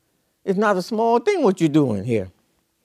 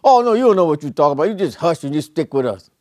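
bullheaded dismissal. Retold or imitated. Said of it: "somebody that's so bullheaded".

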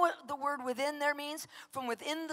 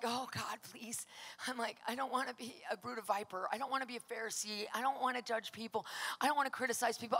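soft retold prayer; 7 dB quieter than usual. Retold whispered night prayer.

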